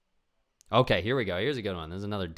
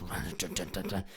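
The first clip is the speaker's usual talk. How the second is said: creature chuckle; 5 dB quieter than usual. Retold or imitated. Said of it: "the thing goes".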